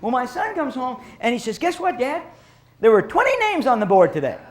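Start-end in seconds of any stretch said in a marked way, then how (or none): 1.6-4.4 imitating a young son, higher pitch; excited kid. Son telling dad the news, lightly voiced eager kid. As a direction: play the boy bursting to tell his dad.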